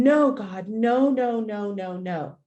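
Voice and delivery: screaming no. Retold or imitated. Owner pleading as traffic nears, fading screams. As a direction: start loud and fade into despair. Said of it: "and I just scream".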